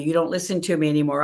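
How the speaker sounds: quick acted complaint; mock accusation. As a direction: rattle it off like a squabbling partner. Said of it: "No argument, right?".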